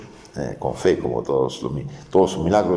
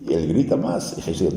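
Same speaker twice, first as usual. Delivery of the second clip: normal talking voice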